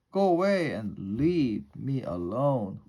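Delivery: loud, irritated dismissal; grumpy rat. A narrator's reading. Rat tells the bug detectives to go away, grumpy. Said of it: "What a grumpy rat".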